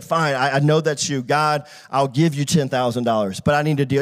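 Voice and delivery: resigned, low-pitched bargaining; reluctant giving in. Retold or imitated. Giving in to God after fight.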